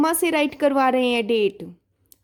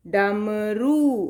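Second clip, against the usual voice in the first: slow repeat; 3 semitones lower, much slower than usual. Shown as a demonstration. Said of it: "repeat after explanation".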